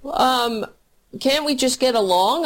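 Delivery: high, naive mock voice of a voter; mock clueless whine. Mocking Trump voters who don't get it, high and whiny. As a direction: play dumb and whiny, puzzled. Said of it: "will be like".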